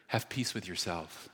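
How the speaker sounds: soft, low, intimate murmur to the ear; God whispering. Acted. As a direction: lean in and say it softly. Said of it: "He starts to whisper in my ear".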